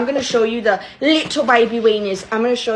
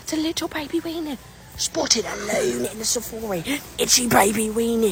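put-on Australian accent, quieter; 6 dB quieter than usual. Narrating things she spots while others listen, in a Steve Irwin Australian accent. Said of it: "She talks like an Australian".

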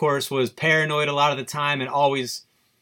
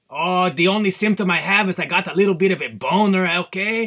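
put-on Mexican accent, raised pitch; 5 semitones higher than usual. Answering his wife's question about his symptoms, in a Mexican accent. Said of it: "I was using a Mexican accent".

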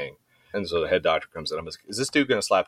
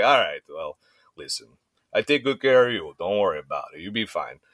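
mock, put-on Russian accent. Speaker quotes a Russian man reassuring him, imitating a Russian accent. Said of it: "this gnarly Russian dude".

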